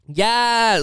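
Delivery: high drawn-out mock cheer. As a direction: whoop it like a fan at a rally. Imitates girls cheering, arm in the air.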